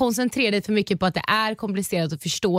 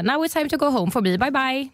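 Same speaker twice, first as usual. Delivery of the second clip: put-on higher-pitched Swedish-accented English; stilted Swenglish goodbye, pitched up; 5 semitones higher than usual. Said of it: "fick prata engelska".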